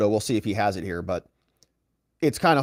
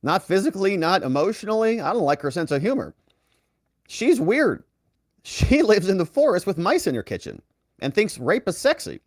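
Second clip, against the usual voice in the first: imitating Trump; 7 semitones higher than usual. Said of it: "He says".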